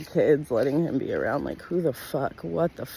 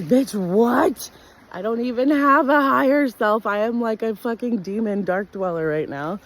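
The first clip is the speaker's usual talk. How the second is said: high, loud disbelieving scoff; mock outrage at a silly question; high sassy disbelief; incredulous retort; 8 semitones higher, 5 dB louder than usual. Retorting to higher-self question.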